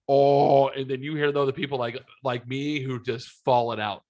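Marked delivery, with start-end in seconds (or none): 0.1-0.7 crowd reaction. Retold or imitated. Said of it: "you hear people go".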